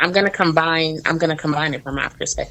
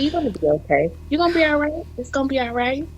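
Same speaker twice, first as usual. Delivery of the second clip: reassuring mom; 7 semitones higher, 4 dB quieter, faster than usual. Retold or imitated. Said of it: "And she said".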